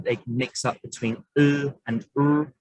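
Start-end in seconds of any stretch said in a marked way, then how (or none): 1.4-1.7 "u" said as a held l sound, "lll"; isolated L sound. Shown as a demonstration. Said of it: "the L and R sounds". 2.2-2.5 "u" said as a held r sound, "rrr"; isolated R sound. Shown as a demonstration. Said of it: "the L and R sounds".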